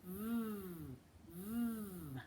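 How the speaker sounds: long buzzing vvv with lip bitten; voiced vvv sound. Shown as a demonstration. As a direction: buzz the V with voice on. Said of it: "Do you know what the V says".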